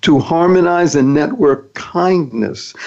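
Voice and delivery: slow, each word weighed; slow deliberate acronym read. Shown as a demonstration. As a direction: lay out the acronym slowly. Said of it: "Thank stands for".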